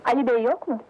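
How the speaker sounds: loud call into the house. Acted. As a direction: call out to someone inside. Calling into the house.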